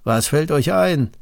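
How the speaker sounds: a mildly angry king rebuking defiance. Acted. King angrily scolds the three who will not kneel. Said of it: "rief der König voll Zorn".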